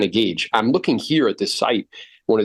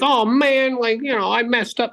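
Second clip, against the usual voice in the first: high-pitched, whiny self-blame; mock dejected agent; 12 semitones higher than usual. Discouraged agent blaming himself after a bad appointment, mock dejected. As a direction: lament it in a much higher voice.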